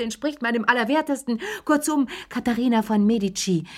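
high, fast, shrill-free mock of an indignant mother; mocking Madame Pelloux. Chérie mimics his mother scolding Lea, hammed-up high voice. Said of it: "damit ich Madame Pellouxs Arme nachmachen kann".

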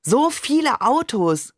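high, drawn-out exclamation; amazed call. A narrator's reading. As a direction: call out in excited wonder. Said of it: "rief ich".

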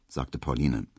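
usual speaking voice

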